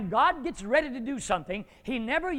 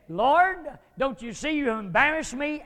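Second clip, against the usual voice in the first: anguished cry to God; 6 semitones higher, 8 dB louder than usual. Acted. Joshua crying out to God.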